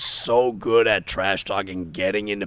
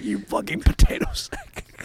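very high squeaky Irish insult; high laughing Irish mockery; Irish accent. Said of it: "He's like".

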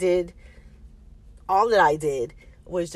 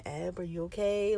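softly imitated calm aunt; a gentle, soft check-in; 6 dB quieter than usual. Calm aunt checking on her niece at drop-off, soft and calm. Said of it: "so she's being the calm one".

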